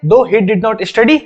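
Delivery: very slow, careful reading of the example; spaced word-by-word English; read aloud slowly. Shown as a demonstration. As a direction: show the class how it's read, slowly. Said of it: "पढ़ेंगे कैसे?".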